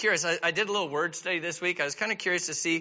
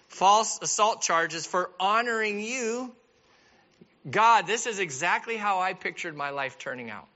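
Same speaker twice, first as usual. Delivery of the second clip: sarcastic Joseph. Acted. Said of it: "Joseph's probably thinking".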